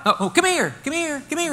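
high, laughing beckoning voice; mock coaxing. Fickle crowd now beckoning the blind man, mock coaxing. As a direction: coax in a suddenly friendly, hammed-up high voice. Crowd abruptly turns welcoming, mocked.

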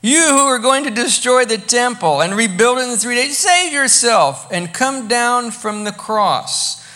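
loud, jeering reading of a taunt; mocking abuse. Passers-by hurling abuse at Jesus on the cross, loud and mocking. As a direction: hurl it like a heckler in the crowd. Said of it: "hurling abuse at him".

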